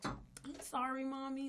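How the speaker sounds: very sweet, sugary apologetic tone. Retelling a scolded daughter's quick apology: imitating Desiree's sweet apology. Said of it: "really like a Sour Patch".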